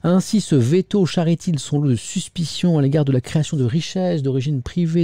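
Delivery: emphatic newspaper reading; editorial read-aloud. Acted. Presenter reading a scathing editorial to viewers, emphatic read-aloud. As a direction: read it out in measured phrases.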